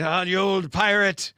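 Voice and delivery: a light take on smooth Lando; Lando greeting. Retold or imitated. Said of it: "Lando Calrissian who greets him".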